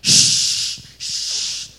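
a hint of a cross old neighbor; scolding little old lady. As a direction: shush them, then scold from up high. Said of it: "sale una viejita".

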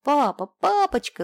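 put-on high, loud, drawn-out child's cry; little girl running to her father, shouting happily. A narrator's reading. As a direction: call out to daddy with glee. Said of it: "закричала Юлечка".

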